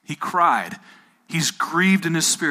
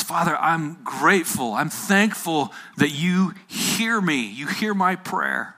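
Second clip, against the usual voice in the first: slow, raised prayer voice; praying; 3 semitones higher than usual. Retold or imitated. Jesus praying to his Father at the tomb, prayerful. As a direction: address the Father in measured, lifted phrases. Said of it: "He looks up and he prays".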